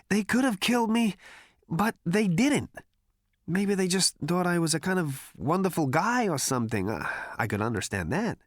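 breezy two-headed braggart, pleased with himself; Zaphod's voice. Acted. Zaphod shrugging off his near death to friends, cocky.

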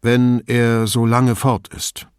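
friendly. Acted. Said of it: "sagte er im Ton eines Freundes der Familie".

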